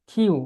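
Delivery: "কিউ" with a breath puff on the k; aspirated Q. Shown as a demonstration. Teacher modelling the corrected letter, aspirated Q. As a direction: push air out starting "কিউ". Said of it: "তারপরে কিউ কে বলবো কিউ".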